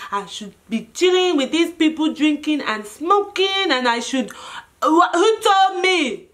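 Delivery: rising mock lament; dramatic self-reproach. Berating self for coming to Chinatown, theatrically regretful. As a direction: wail mildly at your own bad choices. Lamenting own choices after being caught.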